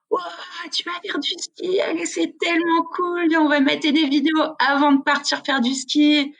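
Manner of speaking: high, eager mock excitement; imitating thrilled Brits about skiing; excited English skier. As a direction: ham up the keen English skier.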